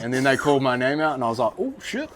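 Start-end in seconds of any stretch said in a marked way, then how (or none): 1.6-2.2 bursts into high laughter; laughing. Retold or imitated. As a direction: laugh out in shocked delight. Called his name as head boy.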